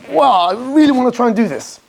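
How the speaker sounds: mildly acted enthusiasm; worked up. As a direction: talk yourself into eager resolve. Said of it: "get worked up about it".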